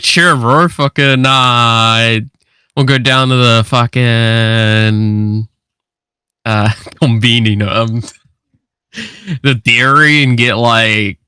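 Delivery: lazy, drawn-out mock Kiwi bloke accent; lightly voiced Kiwi bro, slow and laid-back. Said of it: "am I supposed to be more like".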